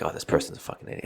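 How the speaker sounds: quick whispered grumble; muttered thought. Retold or imitated. Driver cursing another car, quick whisper. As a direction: mutter it fast under your breath. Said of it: "It's like".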